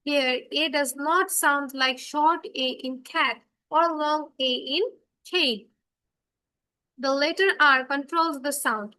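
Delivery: reading a definition word by word, very slow. Acted. Teacher reading a definition aloud for the class, very slowly. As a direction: dictate it slowly for the class to follow.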